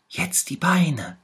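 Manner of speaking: high, pitiful little tiger voice; sick little tiger. A narrator's reading. Little tiger shows the bear where it hurts, high and pitiful. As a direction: whimper it, poor sick cub. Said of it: "sagte der kleine Tiger".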